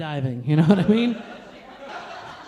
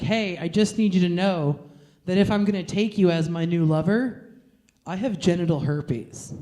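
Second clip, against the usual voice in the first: lightly voiced solemn suitor; mock earnest suitor; 3 semitones lower than usual. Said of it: "Take me as a lover".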